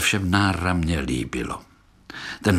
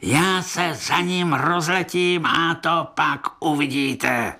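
a higher, odd dopey voice; silly cockchafer; 6 semitones higher than usual. A narrator's reading. Dim-witted cockchafer boasting he will catch the bug, in a silly voice. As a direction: play a boastful dim beetle. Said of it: "přihlouplý chroust".

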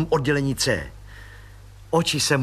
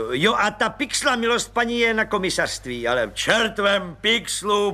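blissful roar; 7 semitones higher than usual. A narrator's reading. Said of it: "burácel blaženě plukovník".

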